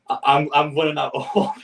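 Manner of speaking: a real laugh breaking into the words; laughing in disbelief. Real, not acted. Fan losing hope at the draw, laughing. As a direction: laugh it out at a hopeless cup draw. Reacting to a bad cup draw.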